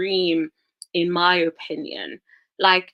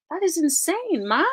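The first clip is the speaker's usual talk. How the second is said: high incredulous exclamation; 10 semitones higher than usual. Real, not acted. Exclaiming at contestant.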